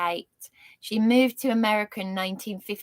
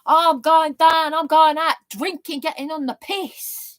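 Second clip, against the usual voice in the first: higher, louder mock party-girl voice; mocking UK youth; 6 semitones higher, 6 dB louder than usual. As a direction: send up a British teen heading out drinking. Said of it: "wasn't brought up like UK children".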